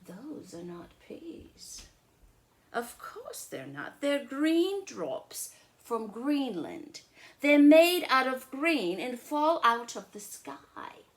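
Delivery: loud, high mock-serious claim; big brother. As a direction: state it with a straight face. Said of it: "And I said".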